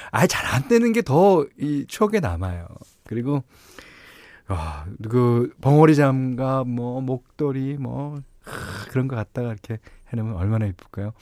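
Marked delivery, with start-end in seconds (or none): none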